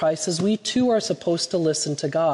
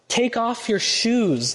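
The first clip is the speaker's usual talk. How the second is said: slow, commanding God voice, mildly raised; a hint of thunder, drawn out; 5 semitones higher, slower than usual. God commands Moses at the bush, mild slow thunder. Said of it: "the voice thundered".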